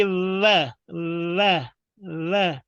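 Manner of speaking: व as a long buzzed V; V sound. Shown as a demonstration. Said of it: "निचला होंठ ऊपर पर दांत से मिला के". (व को दाँत-होंठ से V जैसा)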